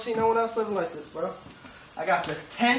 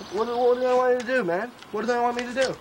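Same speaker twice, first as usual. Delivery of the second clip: exasperated outburst; 4 semitones higher than usual. Acted. Broke streetwear designer venting at the world, exasperated. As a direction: throw the question up in frustration.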